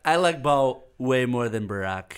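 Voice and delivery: slow, boastful Trump voice; mild Trump brag, drawn out; lightly voiced Trump; Trump impression. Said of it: "Let's not normalize Trump".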